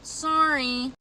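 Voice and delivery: mock half-hearted sorry; drawn-out, insincere sorry; half-hearted apology. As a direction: imitate a token apology, barely meant. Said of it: "with a half-ass apology being like".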